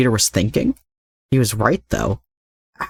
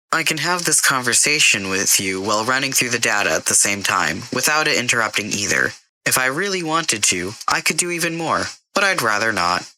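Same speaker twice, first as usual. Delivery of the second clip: a hint of a smug AI; 4 semitones higher than usual. Karen the AI answers Jason.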